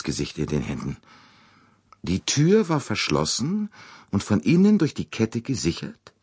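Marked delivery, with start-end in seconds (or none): 2.0-6.1 thoughtful. A narrator's reading. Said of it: "wiederholte Poirot nachdenklich".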